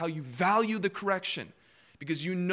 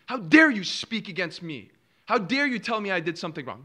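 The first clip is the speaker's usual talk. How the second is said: indignant scoffer; 2 semitones higher, 6 dB louder than usual. Retold or imitated. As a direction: play the scoffer who takes offence. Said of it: "He'll hate you".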